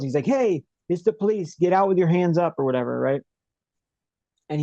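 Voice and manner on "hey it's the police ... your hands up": mock yell. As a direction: imitate an officer calling out a warning, half-voiced. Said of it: "and he yells".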